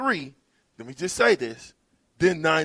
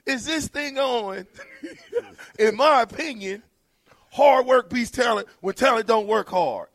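V J radio voice; 9 semitones higher, 7 dB louder than usual. Acted. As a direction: boom it out like a radio personality working the crowd. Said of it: "I gotta do this in my V J voice".

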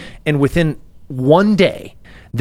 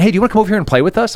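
put-on higher, fast, friendly kid voice; cool kid's invitation; 7 semitones higher, much faster than usual. Cool kid inviting the former bully to play. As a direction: rattle it off like an eager kid. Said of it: "the cool kid comes up and was like".

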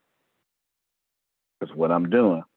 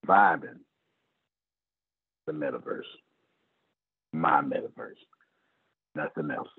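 whispered aside; 8 semitones lower, 4 dB quieter than usual. Real, not acted. Whispered aside after listing.

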